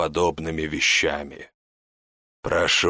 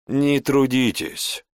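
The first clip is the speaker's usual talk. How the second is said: slow, dry and detached; a dry, unbothered servant; 5 semitones higher, slower than usual. Acted. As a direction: brush off the effort coolly. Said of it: "сухо произнёс Арам".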